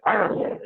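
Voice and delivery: playful growled roar like a lion; a hammed-up lion growl; light roar; mock lion roar. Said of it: "I sweet talk like that".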